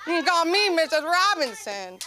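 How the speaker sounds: loud line through laughter; a loud laughing mock-seductive line; laughing flirt. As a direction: deliver it laughing at yourself. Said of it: "I was being a freak".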